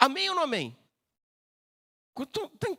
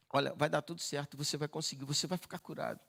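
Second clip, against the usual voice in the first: reassuring word; 6 semitones lower, 4 dB quieter than usual. Acted. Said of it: "você recebe uma palavra".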